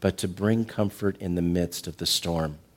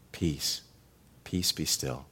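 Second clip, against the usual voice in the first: soft, lower, calm authority; calm command; 4 semitones lower, 7 dB quieter, much slower than usual. Acted. Jesus stills the storm for his disciples, calm and soft. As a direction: still the storm with quiet words. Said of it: "he just speaks".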